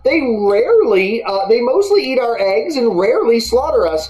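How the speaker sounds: high-pitched talking hen voice; high put-on chicken voice. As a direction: chat like a contented, chirpy chicken.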